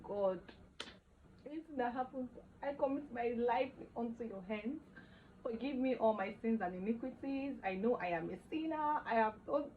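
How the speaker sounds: imitating a pleading confession; begging for forgiveness. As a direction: act out a desperate prayer for mercy. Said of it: "I was begging for forgiveness".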